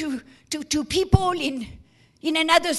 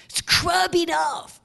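breathy hushed whisper, slowed; mock whisper; slower than usual. Preacher mocking a rude bystander, in a whisper. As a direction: hiss the order under the breath.

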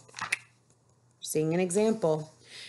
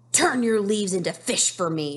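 a firm mock command; ordering; 2 semitones higher, 4 dB louder than usual. Nettie ordering the bamboo tree, mildly bossy. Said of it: "she ordered".

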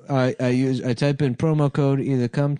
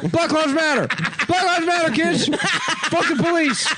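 high, raised protest chant; defiant protester yelling; 8 semitones higher than usual. Acted. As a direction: yell it at the cops, defiant. Clown defiantly yells at police.

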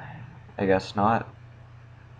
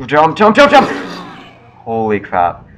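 frantic high yell of jump; shrieking commands in a panic; being chased; 4 semitones higher, 8 dB louder than usual. Real, not acted. Frantic jumping away from chaser.

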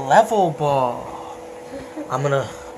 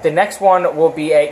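being shaken. Real, not acted. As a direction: voice jostled by shaking. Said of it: "stop shaking me!".

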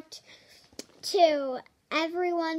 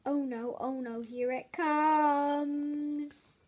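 mock dread; slower than usual. Reader bracing for silly sounds, mock dread. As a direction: whisper the warning like something's coming.

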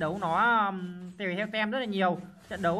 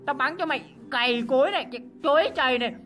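building hype; 3 semitones higher than usual. Real, not acted. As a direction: rev up and yell it at the enemy. Hyped attacking in game. (hào hứng dần rồi hét to khi đánh)

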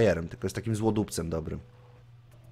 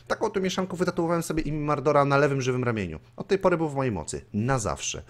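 animated read-aloud of a fantasy tale, higher than chat; story narration; 4 semitones higher than usual. A narrator's reading. Gamer reads the necromancer's story aloud to viewers, animated narration. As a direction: narrate with lively acted dialogue.

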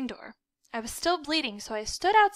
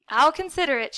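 noncommittal; 4 semitones higher, 6 dB louder than usual. A narrator's reading. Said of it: "she said without much promise".

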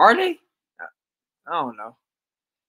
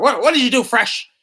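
mock Marvin; 8 semitones higher, 8 dB louder than usual. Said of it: "he was like".

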